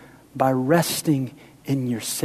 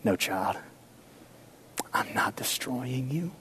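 put-on low, hushed whisper to a child; voice of God; 4 semitones lower, 7 dB quieter than usual. God gently reassuring his hurting child, whispered. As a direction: lean in and whisper comfort. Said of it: "Hear the word of God".

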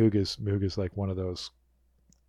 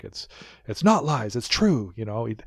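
insistent, louder missionary zeal; passionate true believer; 2 semitones higher, 4 dB louder than usual. Acted. Missionary insisting to doubters that Tron lives, passionate. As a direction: plead the cause like a true believer. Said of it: "She's a passionate missionary".

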